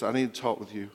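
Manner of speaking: dying man near tears; tearful plea. Retold or imitated. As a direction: speak as a dying man welling up.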